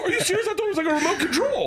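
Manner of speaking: high-pitched retold astonishment; mind-blown, voice shooting up; incredulous. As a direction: blurt it out in naive disbelief. Retelling his astonishment about the robot.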